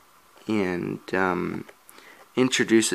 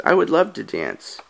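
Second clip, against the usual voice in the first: lightly voiced ghost girl; 2 semitones higher than usual. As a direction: accept the dance, lightly girlish. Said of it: "And then she says".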